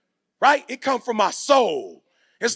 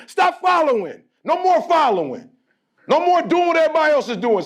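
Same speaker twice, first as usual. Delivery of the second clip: rallying shout; 8 semitones higher than usual. Real, not acted. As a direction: fire up the crowd. Motivational speaker rallying crowd.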